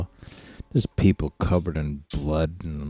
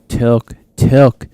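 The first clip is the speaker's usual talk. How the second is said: calling the dog; 5 semitones higher, 9 dB louder than usual. Real, not acted.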